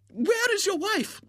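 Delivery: high, brisk lady's voice; bustling spinster. Acted. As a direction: hurry on like an excited old maid. Miss Rubina questions Mr Graham.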